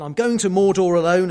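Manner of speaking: insistent shout. Retold or imitated. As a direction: shout it out again, firm. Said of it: "he says again".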